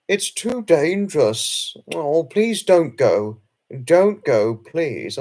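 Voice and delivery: slow, pleading worried friend; pleading Pamela. Retold or imitated. Pamela begs him not to go out, slow pleading. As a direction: beg him slowly not to go. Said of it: "Pamela was like".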